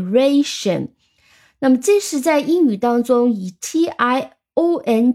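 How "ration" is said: "ration" with a strong first syllable, ra; stress on RA. Shown as a demonstration. Teacher isolates the stressed syllable, "ration" stressed on ra. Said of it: "重音发在的re这个上面".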